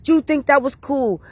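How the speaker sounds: high, scolding why would you; scolding the friend, voice up high; retold exasperation. Scolding her friend after being kicked out, high exasperated. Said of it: "I was like".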